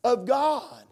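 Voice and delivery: imitated heartfelt prayer request; fervent prayer. Preacher echoing a member's prayer, fervently. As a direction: plead earnestly, as the churchgoer prayed. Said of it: "She would pray that prayer request".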